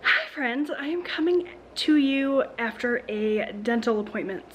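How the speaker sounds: slightly slurred, numb mouth; numb from the dentist. Real, not acted. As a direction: talk through a numb cheek. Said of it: "if I sound slurry or whatever, that's why".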